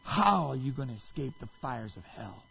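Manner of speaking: low, grave pronouncement of doom; condemnation voice. Retold or imitated. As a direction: pass sentence, restrained and ominous. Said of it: "in a condemnation voice".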